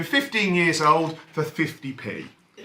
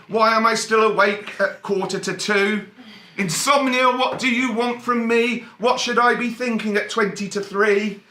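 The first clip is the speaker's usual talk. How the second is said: poem reading; 3 semitones higher than usual. Acted. Comedian reads his insomnia poem to the audience, recited. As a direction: recite the verses with deadpan rhythm.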